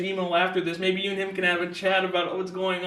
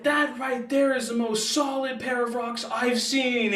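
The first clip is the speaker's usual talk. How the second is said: high, slow imitation of an enthusiast's yell; mock excited yelling; 5 semitones higher, slower than usual. Imitating the professor marveling at rocks from the van, mock excited yelling. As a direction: stretch it out like a mild mock holler. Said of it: "he's yelling in the van".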